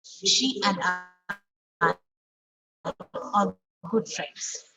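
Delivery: slow demo with AND and ARE unstressed; weak AND and ARE. Shown as a demonstration. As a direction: stress SHE and I, leaving AND and ARE light. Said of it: "we are pronouncing with force".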